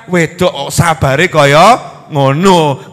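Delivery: gossiping neighbor. Acted. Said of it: "Orang bilang".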